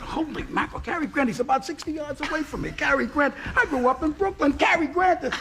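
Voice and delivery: breathless fan excitement, rising; starstruck gushing. Retold or imitated. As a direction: gush like a starstruck kid.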